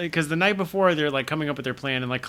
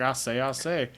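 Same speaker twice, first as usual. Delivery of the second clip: Southern cartoon blusterer's drawl; Foghorn Leghorn. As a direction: do a cartoon Southern windbag, drawing out the words. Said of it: "It's like a foghorn leghorn".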